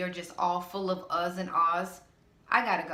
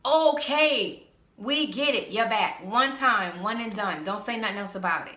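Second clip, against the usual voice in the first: fed up; 3 semitones higher, 5 dB louder than usual. Real, not acted. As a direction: cut them off, you've heard enough. Fed up with complaints.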